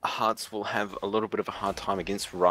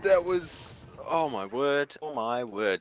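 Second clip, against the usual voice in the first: higher, breathless amazement; amazed; 3 semitones higher, slower than usual. Real, not acted. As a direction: gasp it out in awe. Reacting to the steal.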